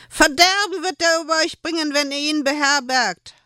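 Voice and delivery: hoch und laut gerufene Warnung; rufend. Acted. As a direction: ruf die Leute drohend an. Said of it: "rief die Händlerin ihnen zu". (Händlerin warnt die Burgbewohner laut)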